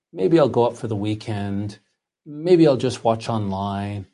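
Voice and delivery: laid-back, low-energy shrug; casual. Acted. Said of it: "this sort of casual".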